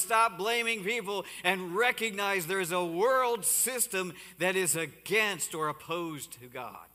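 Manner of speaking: driving repeated pulpit command; fiery exhortation. Acted. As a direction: rouse the congregation to stop blaming. Rousing exhortation to congregation.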